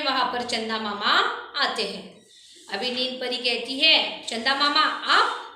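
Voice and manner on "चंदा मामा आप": mild startled question, rising at the end; surprised. Acted. Fairy greets the unexpected moon uncle, lightly surprised. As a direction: caught off guard by the sudden arrival. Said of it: "चौंक कर कहती है".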